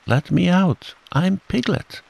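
high, squealing plea; crying out. A narrator's reading. Piglet cries out to Kanga from the bath, high plea. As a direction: plead at the top of your range. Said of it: "cried Piglet".

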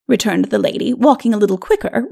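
usual speaking voice

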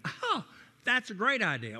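a sudden high "Oh" that leaps up, then a bright rest of the line; eager agreement. Retold or imitated. Eight-year-old buddy at midnight loves the bologna plan, excited. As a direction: jump at the idea like an excited kid.

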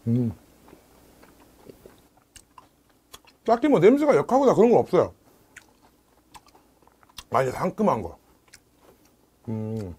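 talking between bites; chewing while talking. Real, not acted. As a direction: mouth full of fish. Seen 3: Ate whole herring just before; jaw and cheeks working while talking.

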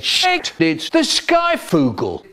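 very high, shrieked alarm; terrified scream. Acted. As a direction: scream at the sight of the monster. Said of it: "looked at me and screamed".

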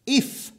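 if hit high and loud, then a pause; stress on if. Real, not acted. Preacher pressing the condition: if stressed high and loud. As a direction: punch the word if and hold. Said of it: "and I stress the word if".

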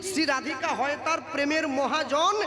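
put-on chanting the old verses in a steady preaching tone; verse recitation. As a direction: recite the verse like a kirtan singer. (পদাবলী আবৃত্তির সুরে)

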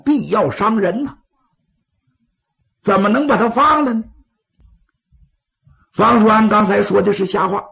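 sly, persuasive schemer; scheming adviser. Acted. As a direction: coax the chiefs toward killing. Scheming adviser speaks to chiefs.

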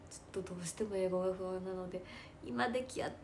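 soft, hesitant asking; timid request. Retold or imitated. Asking the director for the script, quietly. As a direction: ask politely, almost under breath. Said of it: "っていうふうにお願いして".

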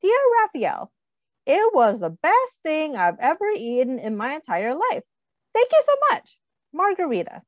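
lightly voiced grateful queen, high on the thanks; the queen's letter. Queen writing to thank Raphael, lightly voiced gushing queen. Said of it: "The letter said".

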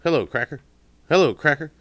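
high, loud squawky parrot imitation; mock parrot chirping hello cracker. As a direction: squawk it like a parrot greeting everyone. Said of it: "he would always say 'em together".

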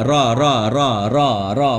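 "รอ" with lips not rounded; drilled "รอ", lips relaxed; unrounded lips. Shown as a demonstration. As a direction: say each "รอ" separately without pursing the lips. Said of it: "พยายามอย่าหอปากนะ".

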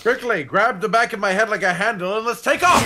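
shouting. Acted. Playful heroic command.

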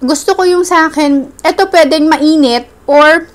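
speaking with food in mouth; eating between words; talking while chewing. Real, not acted. Seen 0: Spoon in hand, mouth moves as if chewing between words.

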